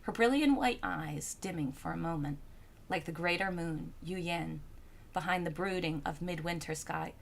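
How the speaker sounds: low, soft, measured storyteller; composed literary narration; story narration. A narrator's reading. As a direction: read the tale calmly, settling at phrase ends.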